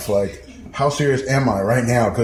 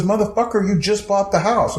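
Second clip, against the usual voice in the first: excited announcement; 8 semitones higher than usual. Retold or imitated. Friend announcing surprising news.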